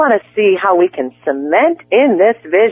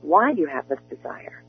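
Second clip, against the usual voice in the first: guided visualization; 3 dB quieter than usual. Acted. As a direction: lead the listener gently into the picture. Coach leads a visualization.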